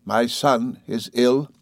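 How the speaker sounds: slow, forced calm question; a mother masking dread with calm; enforced calmness. Acted. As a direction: hold the fear down, very slowly. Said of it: "with enforced calmness".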